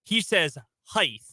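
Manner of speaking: height with an extra h at the end; heighth. Retold or imitated. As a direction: height said as heighth, ending in a breathy th. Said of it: "he puts an extra H at the end of it".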